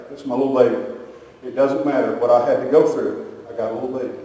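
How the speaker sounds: a hush of wonder over a newborn; imitated tender mother. Mother holding her newborn, lightly voiced tender hush.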